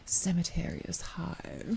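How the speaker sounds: quick teasing whisper; seductive whisper. Pretend. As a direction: whisper it playfully to the mic. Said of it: "I can just say things in, like, a seductive voice".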